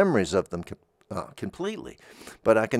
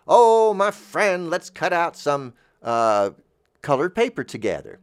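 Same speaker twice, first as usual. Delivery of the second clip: hearty mock invitation; 6 semitones higher, 4 dB louder than usual. Host inviting a friend to cut paper, hearty and playful.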